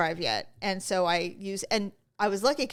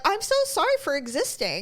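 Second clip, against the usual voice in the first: sarcastic apology; 7 semitones higher than usual. Retold or imitated. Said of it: "I'm like".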